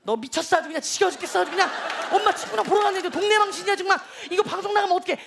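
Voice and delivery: imitating a scolding mom, building to urgency; mock frantic nagging, rising toward the end. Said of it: "난리가 납니다". (방송 나갈까 봐 딸을 다그치는 엄마 흉내)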